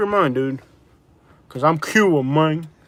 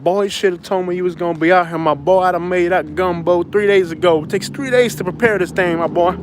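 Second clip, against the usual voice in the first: Louisiana friend; 3 semitones higher than usual. Retold or imitated. Friend scolds him over gumbo, light Louisiana buddy voice. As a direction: playfully ham up the friend who got mad. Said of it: "he's like".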